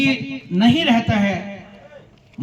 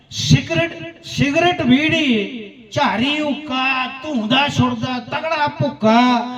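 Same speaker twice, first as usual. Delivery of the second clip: poem recitation. Acted. Poet lists drugs and their harm, rhythmic recitation.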